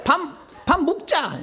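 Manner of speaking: high Gyeongsang dialect call for food; Gyeongsang impression. Preacher mimics a Gyeongsang man demanding dinner, Gyeongsang accent. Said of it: "경상도 사람은 바-, 그거 봐".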